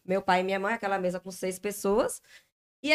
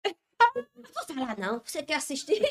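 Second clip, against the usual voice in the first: teasing impression of a huffy husband, laughing through it; mock sulk; 5 semitones higher than usual. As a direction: mimic a pouting husband who's been ignored, dragging it out. Wife mimics angry sulking husband.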